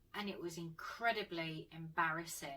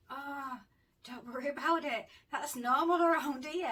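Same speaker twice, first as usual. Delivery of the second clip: higher and much louder, easy and unbothered; hammed-up casual officer voice, high and loud; breezy cop reassurance; 8 semitones higher, 10 dB louder than usual. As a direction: toss it off like a cop who has seen it all. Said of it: "And he went".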